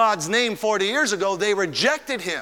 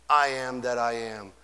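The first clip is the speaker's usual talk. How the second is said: "I am that I am" dropped much lower and softer; hushed reverence; 9 semitones lower, 6 dB quieter than usual. Acted. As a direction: let it fall to a low, awed hush. Quiet echo of the divine name.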